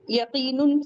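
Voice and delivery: यकीनुन said with the ending un; wrong form यकीनुन with un at the end. Shown as a demonstration. Teacher to class, showing the wrong यकीनुन. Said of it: "नहीं कहेंगे".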